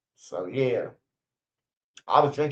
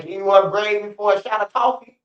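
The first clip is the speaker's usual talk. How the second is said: higher, louder imitation of a guy begging for a hit; mock pleading inmate; 5 semitones higher, 4 dB louder than usual. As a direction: ham up a needy inmate asking for a shot. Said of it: "niggas like".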